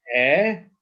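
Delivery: ELOHIM in three long pieces, E ... LO ... HIM; syllable by syllable. Shown as a demonstration. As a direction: pull "Elohim" apart with long gaps. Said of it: "this is one syllable by itself".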